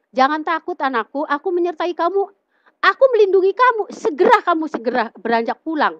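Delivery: usual speaking voice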